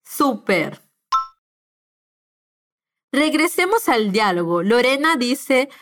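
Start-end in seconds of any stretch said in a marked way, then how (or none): 0.1-0.8 Súper again, weight on SU, a falling model; stress on the U. Shown as a demonstration. Teacher repeating the model word for learners, clear and falling.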